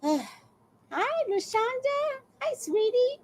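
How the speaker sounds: high, soft sing-song hello; sugary greeting. Acted. Greeting a chat viewer by name, high and soft. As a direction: coo at them like a sweet auntie.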